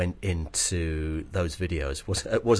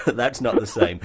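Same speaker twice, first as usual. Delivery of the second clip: laughing; 3 semitones higher, 5 dB louder than usual. Real, not acted. Laughs at his own guilty secret.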